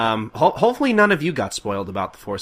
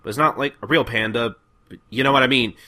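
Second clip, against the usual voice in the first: a hint of a Kondo giving orders, a bit higher; lightly voiced commander; 4 semitones higher, 4 dB louder than usual. Kondo instructing the Shinsengumi to find the panda, lightly voiced. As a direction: bark orders half-seriously. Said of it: "Kondo's just continuing".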